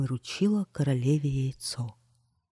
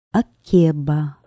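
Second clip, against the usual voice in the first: drawn-out name; 7 dB louder, much slower than usual. Acted. Queen prompting the king with the witch's name, slow and drawn out. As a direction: stretch the name out slowly and loudly.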